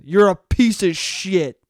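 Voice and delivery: slow, deliberate condemnation, acted out; dead-serious insult. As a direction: say it as if you truly mean it. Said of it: "They don't say it with any sarcasm".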